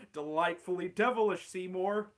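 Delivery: lightly voiced sly Skinner; Skinner to himself. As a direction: praise your own scheme. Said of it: "Steamed Ham script".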